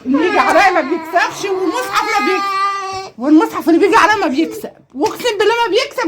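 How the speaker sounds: high, loud gloating, half laughing; playful victory cry; triumphant boasting. Real, not acted. Boasting to kids, swearing.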